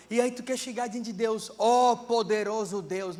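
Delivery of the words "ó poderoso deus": slow, pompous mock prayer voice; hammed-up formal invocation; mock grand prayer. Shown as a demonstration. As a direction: pray like putting on a show. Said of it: "não é assim, irmão".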